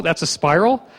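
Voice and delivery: ordinary delivery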